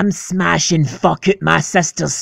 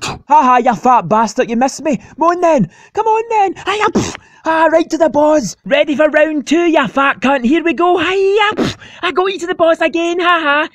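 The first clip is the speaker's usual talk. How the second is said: very high, gloating cartoon voice; squeaky gloating taunt; 12 semitones higher than usual. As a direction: gloat at the fat boss.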